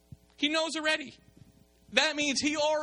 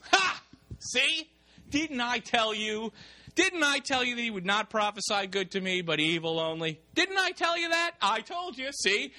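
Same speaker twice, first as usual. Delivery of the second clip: gloating told-you-so; 5 semitones higher than usual. Acted. King gloating to Jehoshaphat about Micaiah, high triumphant crowing. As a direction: crow over being proved right.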